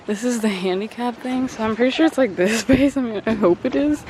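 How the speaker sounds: slightly winded, breathy speech; out of breath. Real, not acted. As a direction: talk while catching your breath. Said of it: "Sorry, I'm out of breath".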